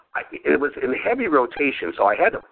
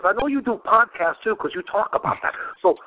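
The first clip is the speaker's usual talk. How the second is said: imitating Jimmy; 5 semitones higher than usual. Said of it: "He goes".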